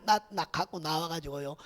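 ordinary delivery

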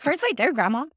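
put-on toddler voice. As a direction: imitate a toddler pointing something out. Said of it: "And she's like".

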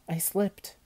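high-pitched, defensive excuse; flustered excuse. A narrator's reading. Olivia excuses her accident.

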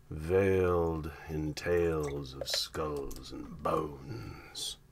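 slow whispered sea dog; gruff old fisherman. Acted. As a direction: hush it like an old sailor. Pirate-style whispered aside.

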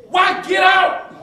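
exhorting shout. Acted. Preacher exhorting the church.

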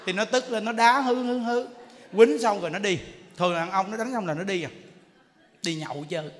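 ordinary talk

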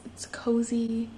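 a slow whispered aside about a snug day; whispered cozy aside. Real, not acted. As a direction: breathe it out contentedly.

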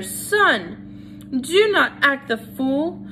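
high, pleading mother's voice climbing to a wail; a mother near panic, high and pleading. Acted. Mother pleads with her son.

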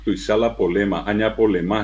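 "polema" with the clusters reduced; Guaraní-speaker pronunciation. Retold or imitated. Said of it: "guaraní hablante dice".

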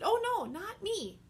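high, light denial; Peter denying. Acted.

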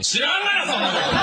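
high laughing "how should I know"; incredulous comeback; exasperated retort. Real, not acted. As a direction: toss it back in disbelief. Indignant retort.

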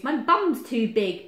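loud, slow bear complaint; booming storybook bear; bellowed. A narrator's reading. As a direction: bellow it, stretching the words. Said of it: "bellowed Bear".

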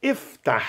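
"Iftah" ending in a breathy, airy h; airy soft H. Shown as a demonstration. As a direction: let air flow out softly at the end of "Iftah". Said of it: "esse som bem airado, bem suave".

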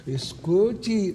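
slow, stretched اسكتي with a falling end; drawn-out hush. Acted. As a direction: draw out اسكتي playfully. Teasing about his dream. (اسكتي ممطوطة ببطء)

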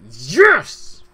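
a sudden loud, high cheer of triumph; a real shout of joy; loud joyful shout. Real, not acted. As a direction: yell with real delight at the news. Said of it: "that was really loud".

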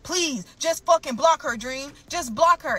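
mock pleading. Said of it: "he was flipping out".

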